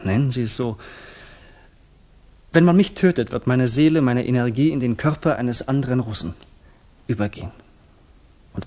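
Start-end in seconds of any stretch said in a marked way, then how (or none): 2.5-6.3 passionate outburst. Acted. Conviction about soul living on.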